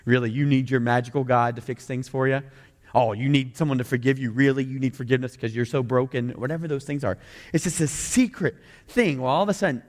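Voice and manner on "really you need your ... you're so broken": scornful, disbelieving jabs; mock every answer with a sneer; snarky mockery. A cynic sneering at a Christian's need for God, mocking. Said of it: "is this snark".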